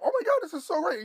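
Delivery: high, loud and quick, laughing through it; giddy and laughing with joy; laughing delight. Retold or imitated. Thrilled by cheap gas.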